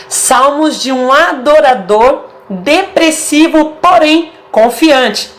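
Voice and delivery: slow, drawn-out reading of "adorador depressivo, porém confiante"; pointed title reading. Shown as a demonstration. Reads out the psalm title pointedly. (leitura lenta e enfatizada do título)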